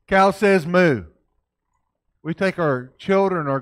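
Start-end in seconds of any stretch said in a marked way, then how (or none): 0.1-1.0 emphatic teaching voice. Shown as a demonstration. Teaching kids animal sounds loudly.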